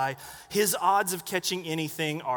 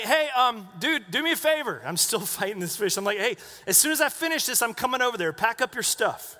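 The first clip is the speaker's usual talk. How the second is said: friendly call across water; 4 semitones higher than usual. Retold or imitated. Calling over to Greg.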